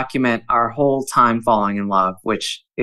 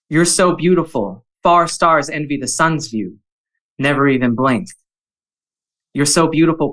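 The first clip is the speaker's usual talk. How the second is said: a measured, tender haiku recital with pauses between poems; gentle poetry reading with "You're so beautiful" lifted each time. Acted. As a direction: read each haiku to her like a love letter. Reads his haiku aloud.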